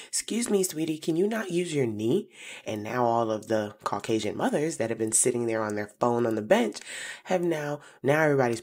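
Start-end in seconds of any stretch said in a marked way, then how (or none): 0.1-2.3 high, carrying call across the playground; sweet but loud call. Retold or imitated. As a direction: call out sweetly but firmly so everyone hears. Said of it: "now I shout very loudly".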